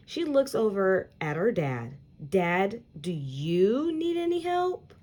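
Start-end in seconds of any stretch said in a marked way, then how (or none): 2.3-4.9 put-on higher child voice calling out; child calling dad. Peyton to her dad, eager to help, higher child voice. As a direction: call to Dad, eager to dodge.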